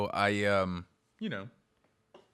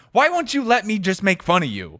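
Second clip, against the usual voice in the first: mock whiny yell; 9 semitones higher, 11 dB louder than usual. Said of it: "you're like".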